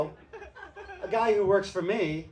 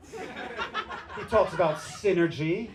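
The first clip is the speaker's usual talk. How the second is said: mocking boss talk; 2 semitones higher, much slower than usual.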